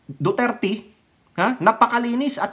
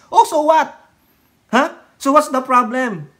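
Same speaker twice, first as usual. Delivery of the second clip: indignant retort; 5 semitones higher, 5 dB louder than usual. Acted. Mocking retort to critic.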